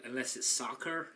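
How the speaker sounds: badly faked American accent; mock American twang on "soccer"; attempted American accent. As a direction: put on a shaky American accent that drifts Irish. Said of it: "That sounded Irish".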